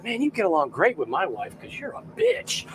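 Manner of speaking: a laughing shouted jab; cheeky mock shout. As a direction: fling the insult out for the laugh. Retold cheeky insult, laughing.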